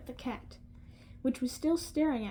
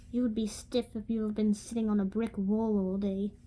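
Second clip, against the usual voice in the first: Scottish accent attempt; 2 semitones lower than usual. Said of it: "I might butcher this accent".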